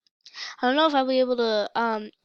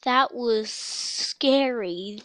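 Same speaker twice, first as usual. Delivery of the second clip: slow emphatic; much slower than usual. Real, not acted. Drawn-out recovery from the scare.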